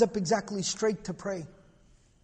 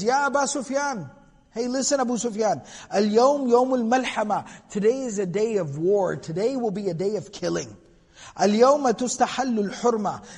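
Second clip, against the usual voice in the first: taunting, rubbing it in, a bit louder; trash talking; 4 dB louder than usual. Retold or imitated. Leader taunting Abu Sufyan at the conquest, mildly gloating. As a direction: gloat over the defeated enemy. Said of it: "what the kids call trash talking".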